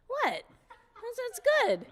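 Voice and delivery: high, laughing protest; laughing shock. Retold or imitated. Writer sees an F on her lyric, high laughing protest.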